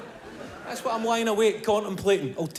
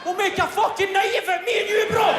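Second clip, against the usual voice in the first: the phone calling; 14 semitones higher than usual. Pretend. The phone in the corner calling Kev out of bed, high excited shouting. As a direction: holler like a mate tempting him out.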